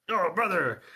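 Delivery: loud, high burst of delight; joyful shout. Acted. Nuke greeting his battered friend with a loud happy shout. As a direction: shout it out, thrilled to see him. Nuke grabs the injured Knight.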